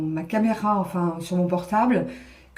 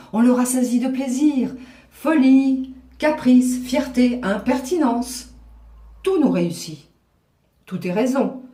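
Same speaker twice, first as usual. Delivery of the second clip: mocking, playful classical comedy; comic stage delivery. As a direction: toss it off like a witty coquette. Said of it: "rigolo et de plus comique".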